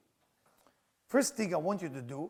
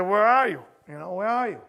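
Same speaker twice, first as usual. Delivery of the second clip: loud, higher acted question; retold exclamation; 5 semitones higher, 12 dB louder than usual. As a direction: call out the question, acting it out. Acting out an exasperated phone quarrel.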